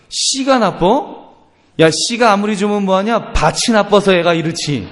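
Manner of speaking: hammed-up indignant dad; riled-up father. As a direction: fire back at your wife in mock outrage. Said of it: "아버지가 또 열받지 않습니까".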